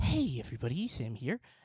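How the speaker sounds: forceful whisper-yell stage whisper. Imitating how Esam started all his videos: imitating Esam's whisper-yell. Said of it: "start at the beginning with a whisper".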